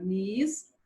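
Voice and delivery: "mistério" broken into mis... té... rio; syllable by syllable. Shown as a demonstration. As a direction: pause clearly between the syllables of "mistério". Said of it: "eu vou separar". ("mistério" separado em sílabas, com pausas)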